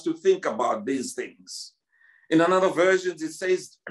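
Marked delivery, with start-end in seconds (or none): 0.0-1.7 "think" drawn out low and slow, pressed down; stress on think. Shown as a demonstration. Preacher urging the congregation to think, stress on "think". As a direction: lean hard on "think", slowly. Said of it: "I'm emphasizing the word to think".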